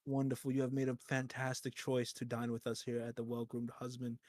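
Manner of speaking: soft, overly courteous waiter; polite server voice. Pretend. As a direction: welcome the guests like a fawning waiter. Waiter welcomes guests.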